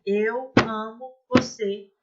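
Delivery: slow, one word per stamp; slow stamped phrase. Shown as a demonstration. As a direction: mark each word with a foot beat. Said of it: "Eu posso estar batendo pé".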